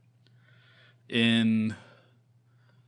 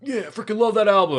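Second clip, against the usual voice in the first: high, gushing fan imitation; hammed-up excited fan; mock enthusiasm; 10 semitones higher, 6 dB louder than usual. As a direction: swoop up high and gush about it. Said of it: "they're like".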